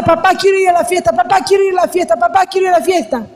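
lightly voiced pleading teenage girl; pleading daughter. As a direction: nag papa over and over like a child. Daughter begging father repeatedly.

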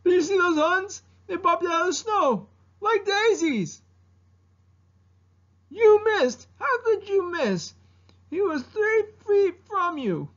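very high, agitated dragon squawk; Mushu. Acted. Dragon scolding over a missed shot, very high incredulous impersonation. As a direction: exclaim in disbelief, stretched and high-pitched. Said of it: "doing an impersonation of Mushu".

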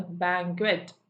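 ബാങ്ക്വറ്റ് weighted on "ബാ"; stress on first syllable. Shown as a demonstration. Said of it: "ബി ആണല്ലോ stress".

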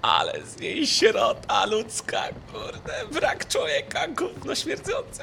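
slow, drawn-out mocking insults; mocking drawl. Real, not acted. Streamer mocking the monster, slow drawn-out insults. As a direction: stretch each insult out slowly.

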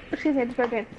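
mouth full. Real, not acted. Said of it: "What are you eating?".

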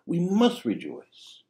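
high, slow, earnest plea; pleading father. Retold or imitated. Father pleading with his sullen son, slow and earnest. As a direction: coax the son gently to come in. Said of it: "pleaded with his son to enter".

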